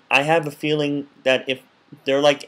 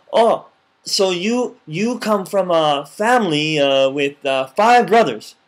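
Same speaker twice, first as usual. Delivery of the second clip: exaggerated interest; 2 semitones higher, 4 dB louder, slower than usual. Shown as a demonstration. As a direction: stretch each word to show you care. Showing exaggerated interest to a speaker.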